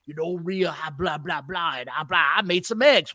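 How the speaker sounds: low, soft mumbled mock promo; mocking imitation. Podcaster imitating a wrestler's absurd scripted promo, low mocking delivery. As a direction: drone it low as filler lines. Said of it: "It sounds absurd when he says it".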